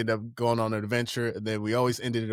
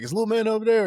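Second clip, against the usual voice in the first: higher, louder stepdad calling; stepdad impression; 9 semitones higher, 4 dB louder, faster than usual. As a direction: call for Little Man like the stepdad. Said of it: "he always just be like".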